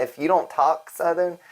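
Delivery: half-hearted mock Southern accent; butchered Southern accent. Shown as a demonstration. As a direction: have a clumsy go at a Southern accent.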